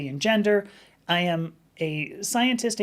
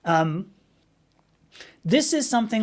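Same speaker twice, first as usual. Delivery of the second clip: ordinary talk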